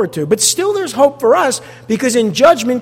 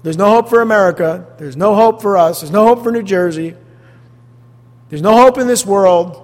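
a touch of a gloomy complainer; mock negative talk; 3 dB louder than usual. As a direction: mimic the doom-sayers, a little louder. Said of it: "this negative talk".

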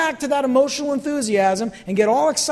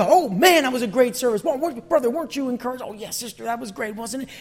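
mock-gushing churchgoers, higher pitched; 4 semitones higher than usual. A churchgoer gushes to another after service, mock enthusiastic. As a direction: play chirpy church folk after service. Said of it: "and you, you".

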